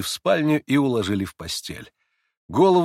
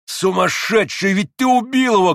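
high cry rising on the accusation; horrified shout; 8 semitones higher, 5 dB louder than usual. A narrator's reading. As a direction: cry out at a madman. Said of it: "крикнул Иван".

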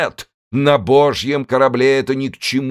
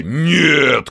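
chorus shout; 3 semitones higher, 4 dB louder than usual. Acted. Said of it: "крикнули крестоносцы любви".

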